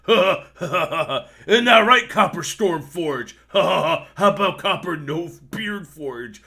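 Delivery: loud, laughing brute voice, jeering at the prisoner; a cackling bugbear mocking the shaved dwarf; gloating bugbear. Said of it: "The bugbear goes".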